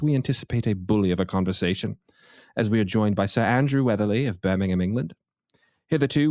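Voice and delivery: pompous, put-on British announcer; pretentious British accent. Host grandly introducing his guests, in a pretentious British accent. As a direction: ham up a formal British radio welcome. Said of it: "pretentious British accent".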